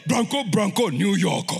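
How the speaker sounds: loud team chant; cheering football fan. Acted. Same people at the football game, acted excited chant. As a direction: chant it like a rowdy supporter. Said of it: "those same people are like".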